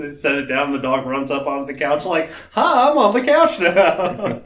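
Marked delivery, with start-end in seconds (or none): 2.5-4.4 slow, higher cutesy dog voice with a laugh; voicing the dog. Little dog announcing it made the couch, slow cutesy voice. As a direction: play the little dog, pleased with itself.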